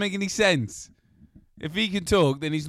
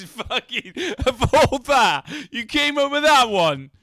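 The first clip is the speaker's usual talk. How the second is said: exasperated; 8 semitones higher, 7 dB louder than usual. Real, not acted. Exasperated at the bad joke.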